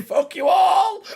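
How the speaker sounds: very high, loud and slow; hammed-up battle shout. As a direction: scream it like a crazed villain. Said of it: "and just going".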